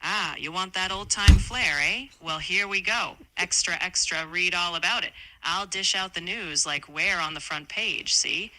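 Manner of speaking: lightly voiced vintage newsman; newsboy-style patter, a touch punchy; old-time 1920s reporter. AI obliging host's request, hint of twenties reporter. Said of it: "talk in the style of old-time nineteen twenties reporters".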